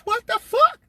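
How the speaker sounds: sudden high, loud disbelief; shocked outburst. Retold or imitated. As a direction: blurt it out in total shock. Shocked at being made producer.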